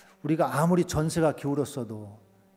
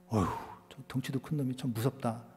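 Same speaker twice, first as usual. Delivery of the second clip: trembling soldiers; 3 semitones lower, 8 dB quieter than usual. Retold or imitated. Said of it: "벌벌 떠는".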